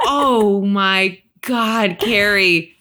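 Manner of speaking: drawn-out, exasperated groan of words; mock dismay. Viewer scolding a TV character, slow mock dismay. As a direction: stretch it out slowly in disbelief. Acted exasperated reaction to Carrie.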